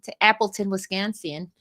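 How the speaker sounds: a light, half-hearted Wisconsin accent on "Wisconsin", vowels stretched out; attempted Wisconsin accent. Shown as a demonstration. Host jokingly fakes a Wisconsin accent naming the tournament city. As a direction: try a bad Wisconsin accent on Appleton, Wisconsin. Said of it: "That wasn't such a good accent".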